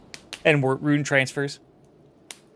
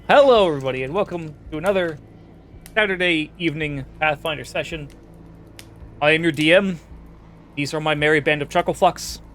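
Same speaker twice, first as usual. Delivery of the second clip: session host intro; faster than usual. Acted. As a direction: open the game like a host. GM opening the session.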